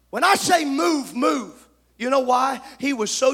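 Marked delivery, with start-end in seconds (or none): 0.1-1.7 stern command. Acted. Balaam commands donkey.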